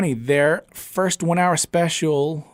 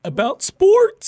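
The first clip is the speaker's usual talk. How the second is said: mock high voice; 6 dB louder, slower than usual. Odd high voice quip.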